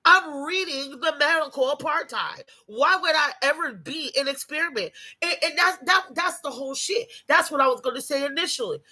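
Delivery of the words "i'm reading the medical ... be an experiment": shouting back at mama in the retelling; yelling I'm not taking it; retold yell at mama. Retold heated argument with mama.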